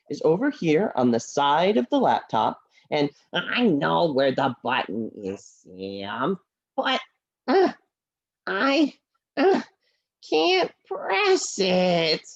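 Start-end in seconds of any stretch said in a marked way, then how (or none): 2.9-12.3 lower, glum puppet voice; a sad little horse puppet apologising; low and downcast, speaking to Sam; Henry the puppet. Acted.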